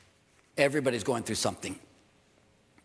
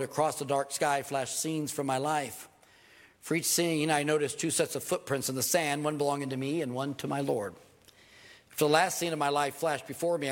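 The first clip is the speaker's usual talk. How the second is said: poem reading. Acted. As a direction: read the poem gently, like a cherished verse. Reads the Footprints poem.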